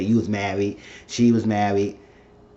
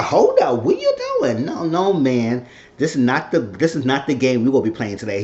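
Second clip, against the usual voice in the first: high mock woman's protest; a high voice pushing a man off; imitating Alex; 4 semitones higher than usual. To Ian, Alex pushing him away in a high protest.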